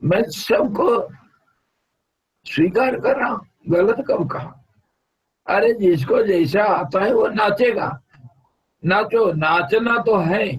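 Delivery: high-pitched, insistent self-defence; animated protest. Real, not acted. Guru tells student he accepts everyone, protesting. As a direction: argue back with lifted pitch.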